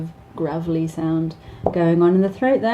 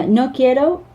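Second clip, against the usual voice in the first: put-on child's voice; 7 semitones higher, 5 dB louder than usual. Child refusing.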